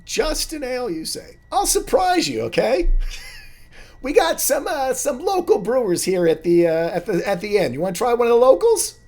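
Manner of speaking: very high, loud squeaky halfling; chirpy barkeep greeting old friends; a high squeaky halfling barman; halfling bartender. Acted.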